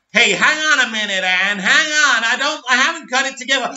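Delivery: hurried protest. Acted. Gunn voiced protesting, hurried.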